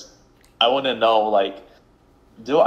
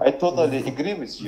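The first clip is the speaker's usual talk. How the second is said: quick, higher Russian accent; regular Russian-dude accent; 5 semitones higher, faster than usual. Shown as a demonstration. Agreeing with a friend, in a put-on Russian accent. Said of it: "just a Russian dude".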